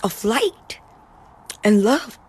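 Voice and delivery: slow, awed declaration of a hero with a sword; lightly voiced hero, slow and awed; inspired inner voice. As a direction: sound like you've just found your power. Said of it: "And you become like".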